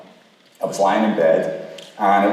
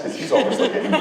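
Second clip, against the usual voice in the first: laughing; 13 semitones higher, faster than usual. Real, not acted. Laughing while telling the story.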